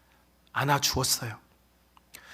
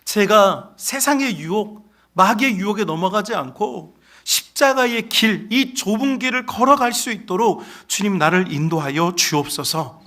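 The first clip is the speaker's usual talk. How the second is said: earnest, higher, slowed prayer; sample prayer; 3 semitones higher than usual. Shown as a demonstration. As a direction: pray it as the congregation should. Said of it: "매일 기도해야 돼요". (간절하게 높여 드리는 기도)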